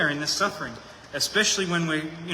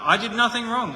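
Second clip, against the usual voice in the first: "nothing" hit high and louder; insistent protest; 6 semitones higher, 4 dB louder than usual. Retold or imitated. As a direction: protest innocence, punching "nothing". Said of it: "Job just keeps pointing".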